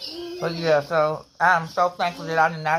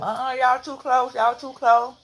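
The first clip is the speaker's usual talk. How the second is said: raised scolding teacher voice; 7 semitones higher than usual. Retold or imitated. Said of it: "The teacher constantly telling them".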